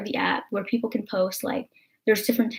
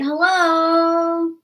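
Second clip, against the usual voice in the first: scornful; 7 semitones higher, 3 dB louder than usual. Real, not acted. Scornful rhetorical hello.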